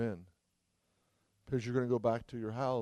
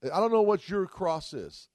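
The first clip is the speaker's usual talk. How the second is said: slowed right down, louder, leaning on "know"; slow emphatic; 5 semitones higher, 4 dB louder, slower than usual. Acted. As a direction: let each word land, "know" held. Repeated at line 113.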